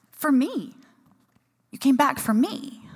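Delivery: high-pitched, moved disbelief, retold; tearfully touched. Runner to friends who came back for her, retold tearful amazement. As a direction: imitate being overcome by friends' loyalty. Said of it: "Well, I'm crying again. And I'm like".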